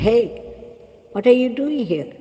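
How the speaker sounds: mildly voiced angry meditator telling them off; irritated shout. Meditator scolding noisy father and son, mock irritated shout. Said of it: "and then shouted at them".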